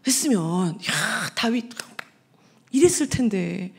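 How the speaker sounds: unvoiced, slow whispered aside. Real, not acted. Preacher whispering to the congregation about David's story ending, hushed whisper. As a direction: whisper it like a secret.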